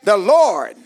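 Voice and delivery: punched words, slow stretched endings; emphatic preaching. Acted. Preacher promising the Lord will fight, emphatic slow preaching. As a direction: hold out the key words like a preacher.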